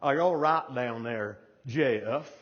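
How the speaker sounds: mock call down to a fallen climber; McAndrews yelling down. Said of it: "you hear McAndrews yell down".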